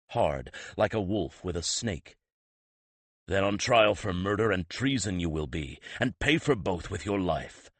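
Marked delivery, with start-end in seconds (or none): 3.3-7.7 a harsh warning through the throat; harsh rasp. Acted. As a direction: rasp it out, louder and hard. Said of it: "he rasped harshly".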